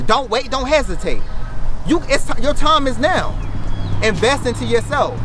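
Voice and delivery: high, loud rallying cry; booming motivational speech. Real, not acted. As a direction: hype the crowd, punch each phrase. Repeated rallying call.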